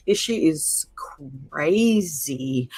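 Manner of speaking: a breathless whispered word. Real, not acted. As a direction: let it drop into a whisper. Shaken, alone, reacting to news.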